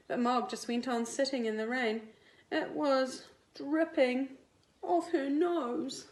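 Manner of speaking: lively picture-book read-aloud; reading to children. A narrator's reading. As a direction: read it like storytime for little kids. Teacher reads picture book to class.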